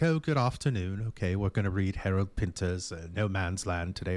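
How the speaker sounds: light British professor accent, imitating; a touch of a British lecturer. Host imitating his British professor opening class. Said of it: "And he was British".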